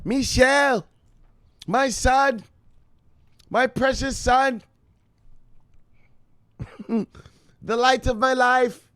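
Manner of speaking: a mother gently scolding her son who stays downstairs all day; doting mother voice. Pretend. Voicing his mother scolding him.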